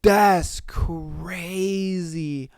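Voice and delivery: slow whispered disbelief; slow awed whisper; stunned whisper. Real, not acted. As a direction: breathe it out slowly in shock. Stunned reaction to story.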